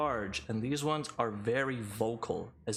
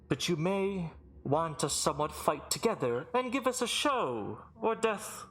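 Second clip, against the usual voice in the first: theatrical master of ceremonies, lifted pitch; grand, projected herald; booming arena announcer; 3 semitones higher than usual. Acted. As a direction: lay out the rules to the arena. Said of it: "booming voice echo throughout the arena".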